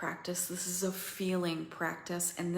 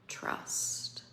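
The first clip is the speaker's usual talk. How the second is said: whispered confession; 4 dB quieter than usual. Acted. Heart confesses, fading out.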